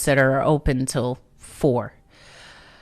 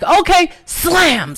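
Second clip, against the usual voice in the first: put-on loud drunk okay; 14 semitones higher, 6 dB louder, slower than usual.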